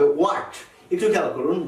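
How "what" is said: WHAT opened on a rounded w; W pronunciation. Shown as a demonstration. Teacher shows advanced learners the W, w-sound start. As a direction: say 'what' as 'wat', no h. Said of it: "ডাব্লুর উচ্চারণটি হবে".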